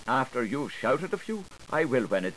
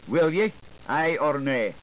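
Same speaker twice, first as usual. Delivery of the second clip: louder, pressing for an answer; demanding shout; 3 semitones higher, 3 dB louder than usual. Acted. Questioner demanding a yes or no from the witness, loud.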